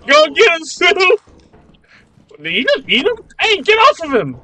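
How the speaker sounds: loud, high excited yelling; shouting. Real, not acted. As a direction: yell at the screen to egg him on. Cheering on teammate in game.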